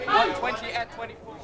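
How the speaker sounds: high pit call; trading floor shouting. Real, not acted. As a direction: call the price out across the pit. Trader calling a bid in the pit.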